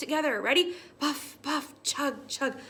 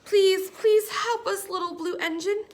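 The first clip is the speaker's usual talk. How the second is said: begging; 6 semitones higher, 5 dB louder than usual. A narrator's reading. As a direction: stretch out the plea. Toys begging engine.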